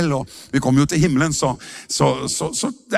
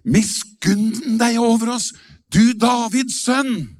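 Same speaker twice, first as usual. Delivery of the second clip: slow, raised pleading cry; drawn-out plea, a little higher; crying out for mercy; 5 semitones higher, slower than usual. Retold or imitated. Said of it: "de ropte".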